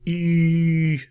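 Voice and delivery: E held high and bright with smiling lips; French E sound. Shown as a demonstration. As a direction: show the smiling ee. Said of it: "just like saying E".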